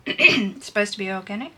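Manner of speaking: talking past a throat tickle; frog in throat. Real, not acted. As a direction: catch in the throat. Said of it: "I've got a tickle in my throat".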